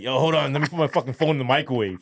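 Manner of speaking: retold urgent interjection; urgent interruption. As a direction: blurt it out in a paranoid rush. Paranoid, halting his girlfriend.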